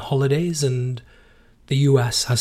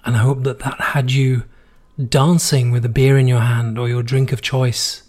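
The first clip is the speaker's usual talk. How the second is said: hoarse, worn-out voice after being sick. Real, not acted. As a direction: talk through a hoarse, tired throat. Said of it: "my vocal cords are completely destroyed".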